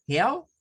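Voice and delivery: quick Helicopter; English helicopter. Shown as a demonstration. Teacher modelling the word. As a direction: say Helicopter in one breath. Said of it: "Fíjense cómo es la separación silábica".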